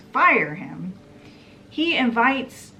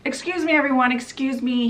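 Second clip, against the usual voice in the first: raised-pitch mock announcement; imitating an official interrupting; boss addressing everyone; 5 semitones higher, faster than usual. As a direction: lightly act out calling a room to attention. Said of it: "his boss says".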